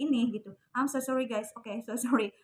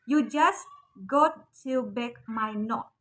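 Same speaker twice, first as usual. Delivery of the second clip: full careful form; much slower than usual. Shown as a demonstration. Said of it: "Kalau dalam bahasa Inggris lengkapnya itu".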